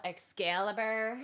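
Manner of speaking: lightly voiced valley girl drawl; slow, questioning valley-girl take. Shown as a demonstration. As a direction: draw it out slowly like a valley girl. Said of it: "like a valley whack girl".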